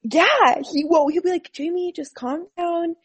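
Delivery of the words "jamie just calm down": higher, soft, slow imitation of a calming husband; retold soothing. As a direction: gently mimic someone telling you to calm down.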